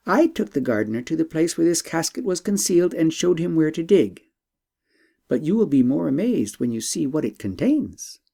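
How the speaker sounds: a hint of an eager young princess. Princess voiced.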